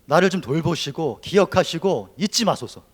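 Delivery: 돌보시고 and 잊지 pushed out loud and slow; desperate plea. Acted. Preacher crying out Hannah's plea, loud and slow. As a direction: beg loudly, stretching each word. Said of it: "사람의 절규에 가깝습니다".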